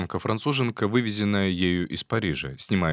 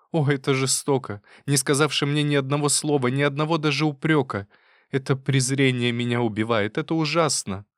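hurt reproach; 5 semitones higher than usual. Acted. Wife reproaches husband.

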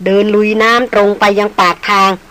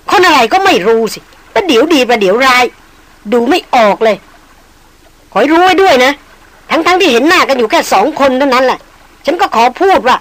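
higher, heated tirade; shrill angry outburst; 4 semitones higher than usual. Acted. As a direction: spit out her contempt. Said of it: "เสียงของหล่อนดังแหวขึ้น". (หญิงสาวตะคอกใส่พรานด้วยเสียงแหลมโกรธจัด)

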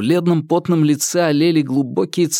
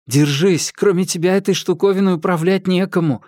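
anxious; 6 semitones higher than usual. A narrator's reading. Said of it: "встревоженно сказал Марк".

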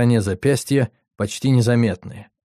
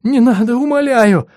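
desperate pleading; 12 semitones higher, 5 dB louder than usual. Acted. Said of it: "умоляюще запричитал".

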